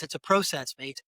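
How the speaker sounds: put-on Scottish accent with a long O in "process"; imitated Scottish lilt on "process, mate". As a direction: say it like a Scotsman, "PROH-sess". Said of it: "in his Scottish accent".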